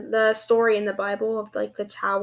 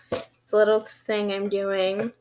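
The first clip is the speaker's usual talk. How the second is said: lisping s sounds; slushy sh for s. Real, not acted. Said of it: "Sorry for my lisp".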